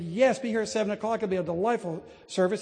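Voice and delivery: a hint of a proud English steward's accent. Steward welcomes the visitor to chapel, mild English accent. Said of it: "He didn't say it with my accent. He said it was his own".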